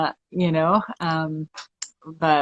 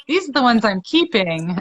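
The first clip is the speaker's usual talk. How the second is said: laughing; 5 semitones higher than usual. Real, not acted. Joking about pet animals, laughing.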